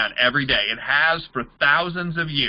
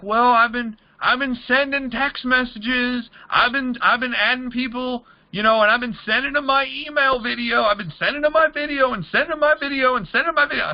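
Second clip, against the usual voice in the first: higher, mock whiny complaining voice, speeding up at the end; mock whiny prospect; 8 semitones higher than usual. Mocking a struggling recruit to the audience, whiny and higher. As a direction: play the clueless recruit griping about no results. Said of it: "People are like".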